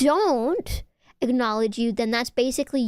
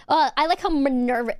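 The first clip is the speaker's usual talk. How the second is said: mocking quote; 2 semitones higher than usual. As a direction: scornfully echo the chat message. Mockingly repeats the chat message.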